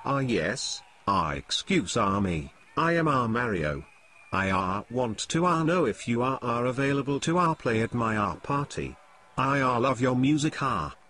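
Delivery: a hammed-up French accent with an "ah" between the words; mock French accent. Mario asks the basketball player to play his party, in a put-on French accent. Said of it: "you can't fool me with your French accent".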